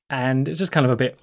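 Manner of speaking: normal talking voice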